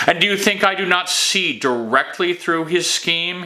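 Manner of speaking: high, indignant scornful question; contemptuous. A narrator's reading. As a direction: demand it with open contempt. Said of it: "voice low and laced with contempt".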